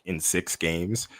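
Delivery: drawn-out, cocky retort; slow, lightly acted boast; confident George. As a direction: stretch it out with mild self-assurance. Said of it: "really confident".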